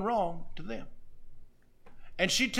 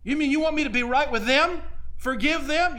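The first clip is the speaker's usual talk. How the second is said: outraged disbelief; 7 semitones higher than usual. Retold or imitated. Woman protesting to the pastor's wife, high outraged disbelief. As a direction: play her scandalised, voice jumping up.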